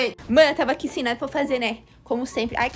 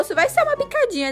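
sweet dentist voice; 10 semitones higher, 3 dB quieter than usual. Retold or imitated. Voicing the dentist in a story.

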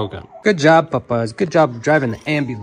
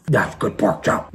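talking through a mouthful; chewing while speaking; mouth full; 7 semitones lower, 5 dB quieter, slower than usual. Real, not acted. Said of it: "talk with my mouth full".

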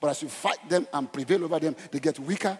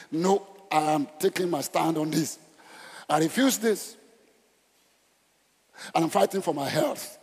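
fiery preacher sermon. Acted. Declaring a stand, preaching.

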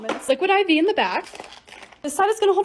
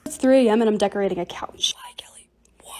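whisper; 5 semitones lower than usual. Real, not acted.

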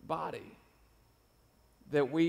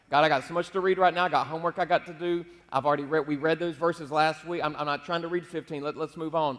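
complaining excuses; 4 dB louder than usual. Retold or imitated. Tired preacher pleading with God to skip the reading, mock complaining. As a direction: pile up excuses like a reluctant kid.

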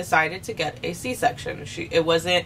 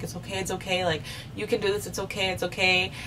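softer, gentle it's okay repeated; calm her down softly, close to her ear; soothing boyfriend; 2 semitones higher, 5 dB quieter than usual. Retold or imitated. Boyfriend holding her head, soothing her softly.

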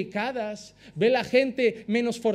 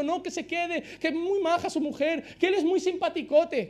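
pleading higher, half-mocking the insistent believer; insisting plea; 5 semitones higher than usual. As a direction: beg lightly to keep him in the church. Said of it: "y tú insistiendo".

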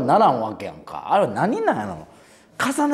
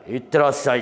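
heavy, solemn sendoff; faster than usual. Retold or imitated. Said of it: "重厚感".

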